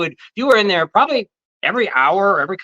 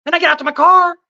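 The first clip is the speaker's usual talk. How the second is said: mock self-pity; 14 semitones higher, 4 dB louder than usual. Buddy fakes a sob story.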